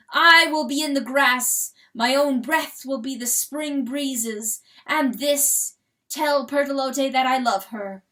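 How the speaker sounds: rooster's farewell speech. Acted. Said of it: "crowed the rooster to the herd".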